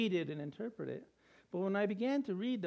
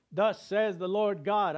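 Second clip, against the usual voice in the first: booming scripture quote; 2 semitones higher, 6 dB louder, slower than usual. Retold or imitated. Quoting God's voice in scripture.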